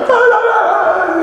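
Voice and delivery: high, loud imitated child's wailing cries; hysterical wailing. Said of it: "And he's like, just like".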